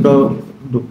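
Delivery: "ডো" repeated low, with an o vowel; pronunciation demo. Shown as a demonstration. Teacher asking students to mind the pronunciation, low careful "ডো". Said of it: "উচ্চারণটা খেয়াল রেখেন".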